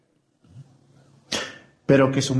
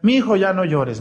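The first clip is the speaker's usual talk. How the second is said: higher, louder hushing plea; mock relatives telling someone to stop crying; imitating hushing a crier; 6 semitones higher, 3 dB louder than usual. Preacher imitating family telling a crier to hush, insistent. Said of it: "le decían".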